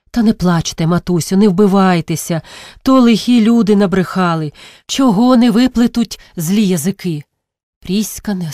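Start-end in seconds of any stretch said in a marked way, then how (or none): 0.1-7.2 son soothing a mother, reassuring her firmly; comforting, a little louder. Acted. Kyrylo consoling the old mother, urgent comfort. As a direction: soothe her, pressing and earnest. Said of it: "Кирило почав утішати".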